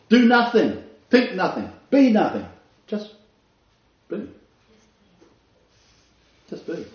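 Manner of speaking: loud, high, punched commands; sermon commands ringing out; preached commands. Acted. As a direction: hammer each command out.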